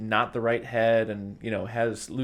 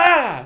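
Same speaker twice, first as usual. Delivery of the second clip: high, loud mock scream of fright; everybody shrieks at the bloody doctor; 13 semitones higher, 12 dB louder than usual. Coworkers scream at the bloody doctor, a hammed-up shriek.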